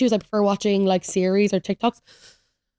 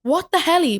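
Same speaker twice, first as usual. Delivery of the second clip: taken aback; 8 semitones higher, slower than usual. Real, not acted. Still reacting to Paul's news.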